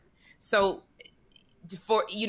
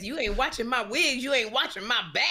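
put-on old lady complaining; 4 semitones higher than usual. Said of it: "like you're an old lady at a nursing home".

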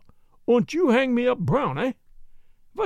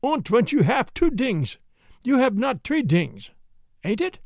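put-on German accent; 2 semitones higher than usual. Jan's hanging logic, German accent.

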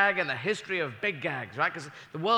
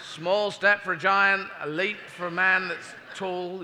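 fumbled line again; slower than usual. Retold or imitated.

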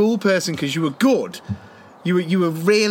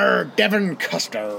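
put-on West Country accent. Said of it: "spoke with a Ambrosier accent".

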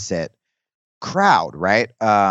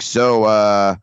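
put-on comic voice; slower than usual. Noam Chomsky at an open mic, put-on comic voice. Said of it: "talk like what they think a comic's gonna talk like".

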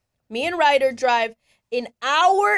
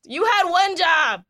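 exasperated yell; 5 semitones higher, slower than usual. Retold or imitated. Wife venting at her husband over the botched form, exasperated yell. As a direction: let the anger burst out on each word. I got home and was pissed.

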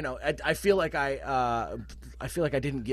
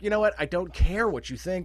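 defiant; 5 semitones higher, 3 dB louder than usual. Retold or imitated. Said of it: "you just gotta be like".

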